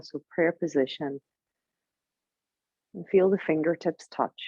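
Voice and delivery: calm, unhurried yoga nidra guidance with long pauses; guided meditation. Acted. Teacher settling students before eye practice, lightly meditative. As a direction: ease them gently into stillness.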